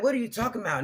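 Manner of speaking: bewildered. Retold or imitated. Speaker baffled by her friend's panic. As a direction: she has no idea what he saw. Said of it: "I'm like".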